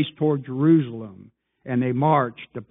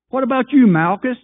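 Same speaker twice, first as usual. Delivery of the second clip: high, loud, rising preacher's call; fiery preaching; 8 semitones higher, 5 dB louder than usual. Real, not acted. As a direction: call them out one by one from the pulpit. Preacher calling out absent disciples.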